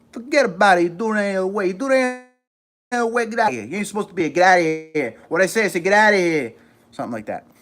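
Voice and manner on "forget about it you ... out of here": high, loud, hammed-up New York accent; thick New York tough-talk, pitched up; exaggerated New Yorker accent. Shown as a demonstration. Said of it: "Every time I do that accent".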